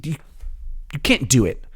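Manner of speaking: normal talking voice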